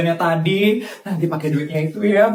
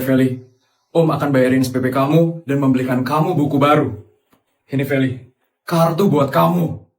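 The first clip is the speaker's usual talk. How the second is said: lower, deep-set voice of a generous rich uncle; 8 semitones lower, faster than usual. Acted. Uncle tells Feli he'll pay her school fees, low benefactor voice. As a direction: talk down gently to the girl as her benefactor uncle.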